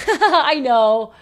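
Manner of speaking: laughing awkwardly; embarrassed little laughing reply. Retold or imitated. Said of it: "I do that awkward, like".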